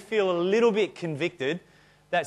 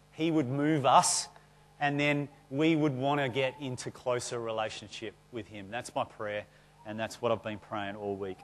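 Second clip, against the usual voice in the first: prayerful voice; 3 semitones lower than usual. Acted. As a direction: lay the words down gently like a prayer. Prays over the congregation.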